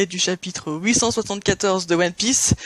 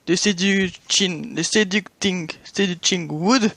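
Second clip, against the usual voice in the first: English accent; much slower than usual. Real, not acted. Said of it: "mon accent anglais pas terrible".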